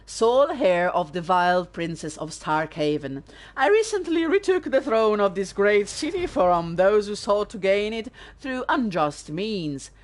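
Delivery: a lightly voiced, stately read of a prince's letter, no accent; formal letter reading. Streamer reads Prince Sebastian's letter to viewers, formal stately reading. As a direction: read it out like a pompous royal missive.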